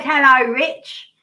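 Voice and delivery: slow echo of an Australian-style greeting; imitated Australian-sounding hello. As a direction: copy the drawn-out Australian hello. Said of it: "the way you said".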